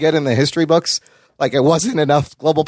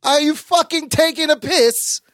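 higher-pitched attempt at a British accent; 8 semitones higher than usual. Shown as a demonstration. Host feeding the puppet his line, British accent. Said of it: "Like in a British".

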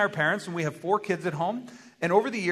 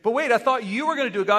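protesting surprise; 5 semitones higher, 4 dB louder, faster than usual. Acted. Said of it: "It's like".

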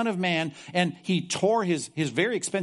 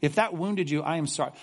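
mock apology. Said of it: "Look at verse sixty-two".

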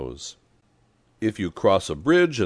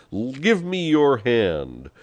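high, drawn-out hearty call; emphatic high-pitched offer; bawled; 7 semitones higher, 4 dB louder, slower than usual. A narrator's reading. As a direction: call out slowly with raised pitch. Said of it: "he bawled".

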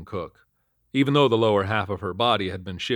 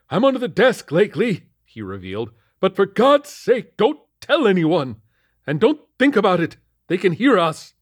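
put-on high, loud, frantic old man's voice; paranoid captain; 11 semitones higher, 9 dB louder than usual. A narrator's reading. Mad captain under his desk, frantic and loud. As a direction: hiss it out like a madman in hiding.

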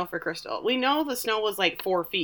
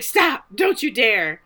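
mock alarmed command; 5 dB louder, slower than usual. Acted order to stop a jumper.

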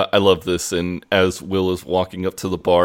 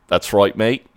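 imitated Australian accent, matey; lightly hammed Australian twang. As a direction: answer like a put-on Aussie. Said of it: "slides into an Australian accent".

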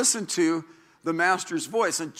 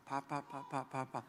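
put-on much softer, faint baby babbling of papa; baby babble; 4 semitones lower, 18 dB quieter than usual. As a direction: murmur papa like a six-month-old. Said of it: "she was going".

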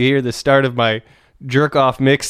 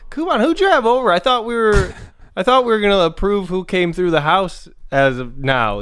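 squeaky high mock-jealous voice; high-pitched jealous roommate; 6 semitones higher than usual. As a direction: pitch way up, playfully hurt. Acting a jealous roommate bit.

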